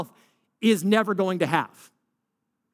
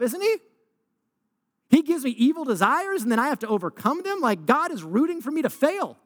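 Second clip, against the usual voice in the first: mock confused believer; 4 semitones higher than usual. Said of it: "Here's the wonky thinking".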